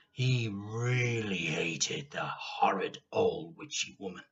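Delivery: a secret whisper of hatred; hushed whisper. A narrator's reading. Reader stresses hatred of Grandma.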